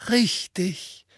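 light, high cheerful agreement. A narrator's reading. Headmaster cheerfully admits the plot to the minister. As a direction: agree brightly, unbothered. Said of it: "sagte Dumbledore heiter".

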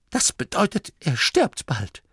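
put-on bossy old Oma. A narrator's reading. Oma Morky hushing the young nome at the sickbed. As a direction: play a stern old granny hushing visitors.

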